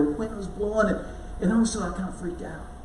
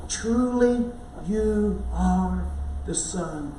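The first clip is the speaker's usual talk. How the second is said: reverent awe; much slower than usual. Retold or imitated. Disciples worshipping Jesus in the boat, slow and hushed. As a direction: confess it slowly, in wonder.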